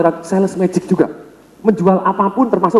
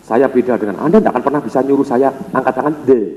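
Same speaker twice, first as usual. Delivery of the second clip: lower, haughty mock voice; stubborn snob; 6 semitones lower than usual. Imitating defiant seminar attendee, lower mock haughty. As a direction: sneer like someone too proud to join. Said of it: "Banyak orang kepengen beda".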